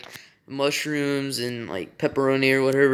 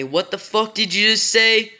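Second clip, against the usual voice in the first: higher, angry mock yell at her son; retold angry yell, pitched up; mom yelling; 6 semitones higher than usual. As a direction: replay mom snapping back in shock. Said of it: "she just yells at me".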